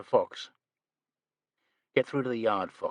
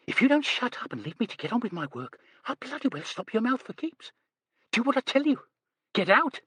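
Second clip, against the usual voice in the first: retold threat; 14 semitones higher, faster than usual. Garcia's threat retold by the speaker.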